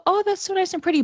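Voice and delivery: high, sing-song admiring coo; a light, playful mock swoon; mock gushing delight. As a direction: gush over a pretty snowy view. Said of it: "You can go".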